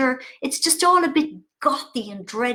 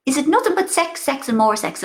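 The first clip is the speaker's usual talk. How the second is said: mother's voice; 3 semitones higher, 3 dB louder than usual. Retold or imitated. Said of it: "she goes".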